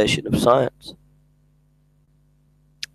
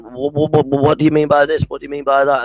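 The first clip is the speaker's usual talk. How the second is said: higher, stumbling mock questions; flustered skeptic; 4 semitones higher than usual. Mocking the atheist dodging Matt Slick, flustered. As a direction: stammer the questions like a cornered skeptic. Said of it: "he's skipping and jumping".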